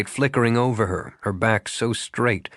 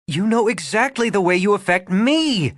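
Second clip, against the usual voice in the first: near shout; 10 semitones higher than usual. A narrator's reading. Regan to Rafe, almost shouting it. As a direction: throw it at him, barely held back. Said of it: "She almost shouted it".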